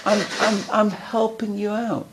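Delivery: high, syrupy evil inner voice; Yetzer Hara voice. Acted. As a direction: sweet-talk him into staying in bed. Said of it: "That's exactly what my Yetzer Hara sounds like".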